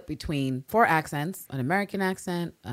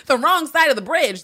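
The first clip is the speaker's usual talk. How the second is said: retold disbelief; 12 semitones higher, 9 dB louder than usual. Retold own reaction.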